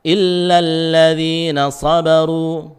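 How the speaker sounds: "sabaru" with dark emphatic sad; thick sad. Shown as a demonstration. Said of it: "pangkal lidahnya naik isti'la".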